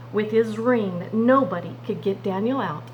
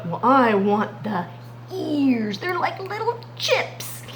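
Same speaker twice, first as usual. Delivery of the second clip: hungry lion; 3 semitones higher, slower than usual. Acted. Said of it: "they might be saying something like this".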